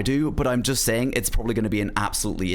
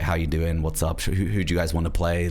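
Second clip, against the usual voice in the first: lower, laid-back late-night gamer voice; relaxed Valorant voice; 8 semitones lower than usual. Shown as a demonstration. Streamer showing chat his low relaxed Valorant voice. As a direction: drop it low and easy like it's one a.m. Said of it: "probably a little bit more quiet".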